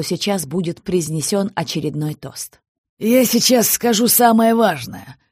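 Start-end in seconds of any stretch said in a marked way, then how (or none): 3.0-5.2 warning. Acted. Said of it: "предупредил".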